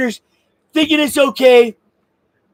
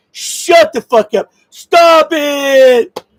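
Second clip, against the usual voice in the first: exasperated yell; much slower than usual. Real, not acted. Exasperated outburst at Democrats.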